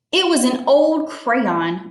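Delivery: mildly grouchy, slow storybook retort; grouchiest voice. Acted. Matthew answers his friend's accusation, in a mildly grouchy voice. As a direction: brush off the blame with a touch of grouch. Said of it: "Matthew said in his grouchiest voice".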